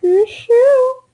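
squawky cartoon duck voice. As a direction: quack the words like a duck. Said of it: "Are you the duck voice?".

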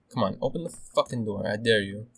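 restrained muttered challenge; tense, contained goading. Real, not acted. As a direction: dare them under your breath. Quietly dares enemy behind door.

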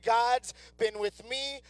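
slow, earnest proclamation; emphatic declaration. Shown as a demonstration. Preacher urging congregation to take it to heart, slow and emphatic. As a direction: declare it slowly so it sinks in. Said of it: "get this in your spirit".

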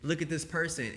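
a hint of a wowed kid; imitating amazed little girls. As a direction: lightly voice a child's awed reaction. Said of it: "little black girls, right, all around the world going".

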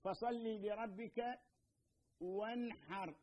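very slow, drawn-out tajweed recitation of فصل لربك, each sound held; Quran recitation. Shown as a demonstration. Teacher demonstrating the verse to students, slow recitation. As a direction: chant it slowly and carefully as Quran, with a pause before وانحر. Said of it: "عندنا مثلًا الحاء".

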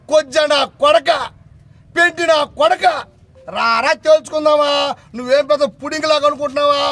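yelling insults, pitch jumping up; furious shout. Real, not acted. Politician challenging his rival at a press meet, furious shout. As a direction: hurl the abuse at full voice.

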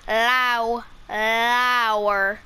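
Leabhar said as lyow-er, repeated; Irish pronunciation. Shown as a demonstration. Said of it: "which equals book".

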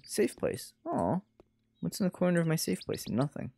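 hushed near-whisper; breathy, soft and secretive. Acted. Hushed reading of safe place.

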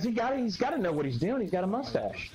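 mock fireman voice. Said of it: "he goes".

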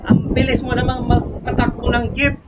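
mock shout at driver. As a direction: call out to the speeding driver, half-hearted. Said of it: "Biglang sumigaw". (matandang babae sa driver, pabirong sigaw)

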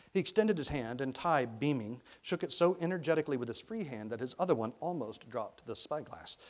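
measured, expressive audiobook reading; storyteller's deliberate phrasing; story narration. A narrator's reading. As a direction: read the story aloud with care.

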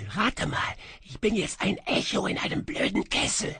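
high, ghostly, sighing echo voice; a lost spirit murmuring its lament from a kettle; high wistful whispery phantom; faint melancholy echo. A narrator's reading.

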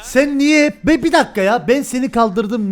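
high, loud outraged protest; angry yelling. Real, not acted. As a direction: shout him down in outrage. Heated in-game argument.

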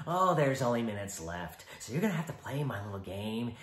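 teasing Joker. Acted. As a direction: goad him. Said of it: "the Joker".

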